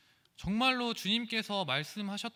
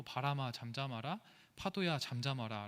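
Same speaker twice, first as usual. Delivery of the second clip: calm, low command to the wind; 바람아 said low and steady, no raised tone; 3 semitones lower, 3 dB quieter than usual. Shown as a demonstration. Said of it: "그냥 낮은 목소리로". (낮은 목소리로 차분하게 "바람아, 잠잠하라")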